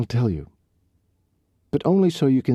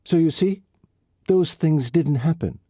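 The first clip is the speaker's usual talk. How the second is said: bitter, worked-up rant; 6 semitones higher than usual. Acted. Riley's bitter rant about prayer.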